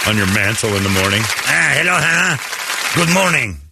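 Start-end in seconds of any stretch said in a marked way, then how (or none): 1.2-3.6 put-on higher French-accented elf greeting. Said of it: "French accent".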